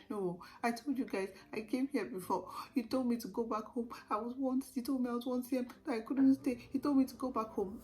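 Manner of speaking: reliving a desperate complaint, voice climbing; retold crying protest. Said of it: "I started crying".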